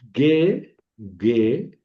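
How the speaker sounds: G said as a hard geh, as in Spanish gue; soft gamma. Shown as a demonstration. Teacher demonstrating gamma, G voiced as gue. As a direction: say G as gue, never as heh. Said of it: "la letra gamma siempre suena suave".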